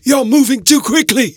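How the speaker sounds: high, strained cry of alarm; urgent warning. A narrator's reading. Montario warns the professor in a high urgent voice. Character shouts warning in dark.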